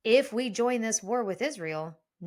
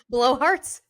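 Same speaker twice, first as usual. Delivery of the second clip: laughing; 4 semitones higher, 7 dB louder than usual. Real, not acted.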